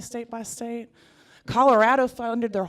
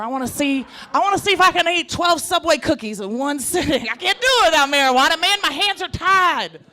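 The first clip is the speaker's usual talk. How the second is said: excited stoner voice; 7 semitones higher, 7 dB louder than usual. Retold or imitated.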